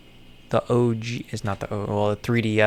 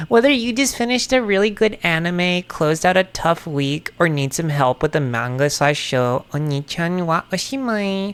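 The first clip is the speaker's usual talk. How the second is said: higher, chipper assistant read; mock AI voice; 6 semitones higher than usual. Reading the AI overview aloud, lightly mocking chipper voice. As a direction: read it like a cheery chatbot. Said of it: "A I Overview says".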